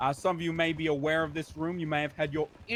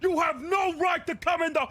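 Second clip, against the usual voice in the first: loud gung-ho jock; 10 semitones higher, 5 dB louder than usual. Acted. Jock cop yelling at recruits.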